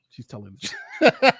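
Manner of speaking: can't hold a straight face; laughing through it. Real, not acted. Cracking up while insisting to co-host. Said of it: "I can't even say it without laughing".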